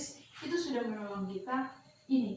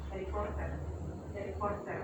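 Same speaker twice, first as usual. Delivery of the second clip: "Harry Potter" with an American r and a soft t; American accent; 3 semitones lower, 3 dB quieter than usual. Shown as a demonstration. Teacher giving the American "Harry Potter" first. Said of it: "aksen Amerika".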